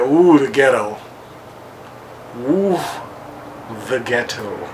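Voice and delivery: Nene impression. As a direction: imitate Nene savoring the word ghetto.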